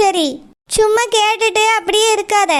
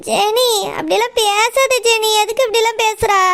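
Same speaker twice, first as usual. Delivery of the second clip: choked up. Acted. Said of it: "voice ஒரு மாதிரி இருக்கு".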